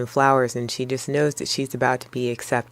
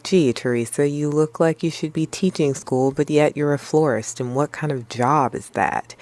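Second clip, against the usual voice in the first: grilling; 2 semitones higher than usual. Retold or imitated. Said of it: "Hester begins to grill Teresa".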